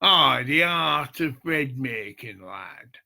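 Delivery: put-on light Yorkshire accent, as his dad would say it; a hint of a Yorkshire dad's saying. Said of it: "Right, I'll put my Yorkshire accent".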